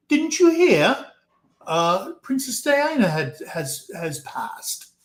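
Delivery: high, mock-tearful English lady voice, fading to a hush; tearful British lady. Scout leader tells the narrator Diana died, in a high mock-tearful English voice. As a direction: imitate the weepy English scout leader breaking the news.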